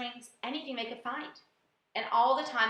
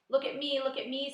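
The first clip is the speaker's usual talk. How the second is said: a touch higher, eager calls; excited; 4 semitones higher than usual. Acted. Centipede freed from paint, calling out with mild excitement. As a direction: show off with glee. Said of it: "said the centipede excitedly".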